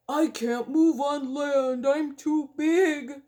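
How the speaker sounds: lightly voiced whale, a slow mild moan; a hint of a stuck, helpless whale. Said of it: "moaned the whale".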